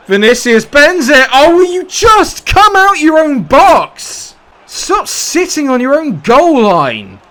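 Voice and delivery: high, loud, drawn-out shouts; exasperated yelling. Real, not acted. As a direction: yell at the opponents, stretching the words in frustration. Yelling at opponents for sitting back.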